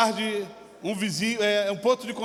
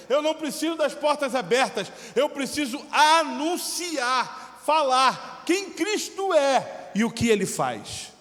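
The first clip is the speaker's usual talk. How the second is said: preaching shout; 5 semitones higher, slower than usual. Real, not acted. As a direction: proclaim it slowly at the top of your voice. Pastor preaching at full force.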